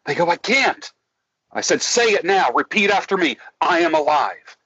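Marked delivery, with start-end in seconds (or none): 0.3-0.9 higher-pitched mock protest; high, falling little refusal; helpless protest. Acting clients who refuse. 1.8-4.6 higher, firm coaching prompt; insist, pitched up; insistent coaching. Retold or imitated. Coach prompting a reluctant client.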